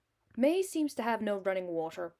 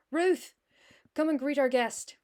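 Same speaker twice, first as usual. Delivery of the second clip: calling out; 5 semitones higher, 6 dB louder than usual. Acted. Mother calling her daughter.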